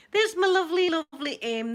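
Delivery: high, loud, delighted hello; excited greeting. Real, not acted. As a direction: burst out with joy at seeing her.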